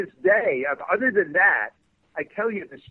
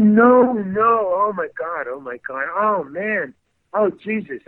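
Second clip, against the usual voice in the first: retold dismay; 3 semitones higher, 4 dB louder, slower than usual. Manager fearing his career is ruined, mock anguish. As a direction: imitate someone appalled, burst then fading. Retelling friend's despair at ruined audition.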